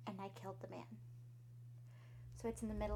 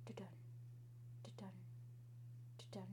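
heartbeat sounds; 3 semitones lower, 15 dB quieter, faster than usual. Acted. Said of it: "I could hear it".

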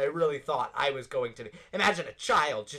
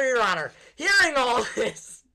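mock courtroom plea; 7 semitones higher, 7 dB louder than usual.

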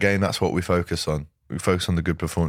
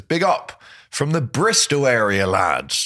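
a put-on Bristol accent, higher and slow at the start; 4 semitones higher than usual. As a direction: read the fan's message in a Bristol accent. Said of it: "Is that a Bristol accent?".

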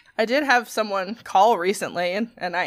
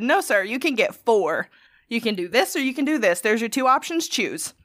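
firm no-nonsense. Retold or imitated. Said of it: "And that's exactly how I said it".

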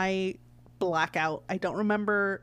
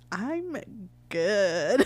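giggly; 3 dB louder than usual. Retold or imitated. Patient giggling to the nurse, loopy from the gas. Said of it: "I'm so giggly".

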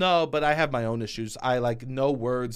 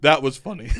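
laughing; 6 dB louder than usual. Pretend. Laughing mockery.

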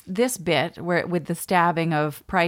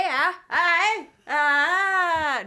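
high-pitched, faltering mock Cockney noises; attempted Cockney; 11 semitones higher, much slower than usual. Co-host groping for the accent, high failed Cockney. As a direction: fish for a Cockney accent well above your own pitch. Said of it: "That was almost Cockney".

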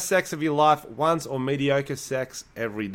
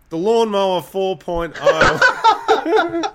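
ad read; 7 semitones higher, 6 dB louder, much slower than usual. Pretend. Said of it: "better ad read than the one".

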